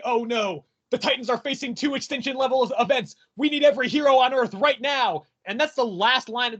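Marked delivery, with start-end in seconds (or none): 0.0-5.2 mock-dramatic alarm, building in force; lightly voiced Dick. Dick rallying heroes in the last panel, mock urgency. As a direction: declare it like a cliffhanger, lightly hammed. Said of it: "Dick is like".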